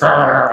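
mock angry growl; imitated growl. Imitating Sophie when she's mad at him, mock growl. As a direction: growl like someone cross, in imitation. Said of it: "Sophie actually growls".

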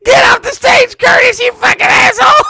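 high, loud imitated heckle; hollering like an angry audience member; heckling crowd. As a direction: bellow abuse toward the stage. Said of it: "They start heckling the guy".

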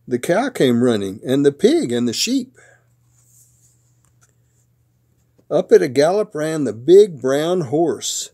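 lively storybook narration with punched words; picture-book read-aloud. A narrator's reading. Papa reads a truck book to his grandsons, animated storytelling. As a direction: read it playfully to small children.

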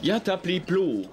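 garbled French attempt; mangled French. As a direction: mangle Je m'appelle Claude laughing. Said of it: "Das war nicht ganz das".

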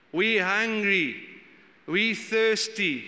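slow, drawn-out whine; grumbling. Retold or imitated. Preacher mimicking Israelites grumbling in the desert, slow whine. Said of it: "the first thing they do is they grumble".

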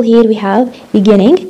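beginning said slowly, each syllable clear, single n; careful beginning. Shown as a demonstration. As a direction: say beginning slowly with one short n. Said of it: "ما بصير نحكي beginning".

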